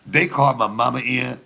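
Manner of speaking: ordinary talk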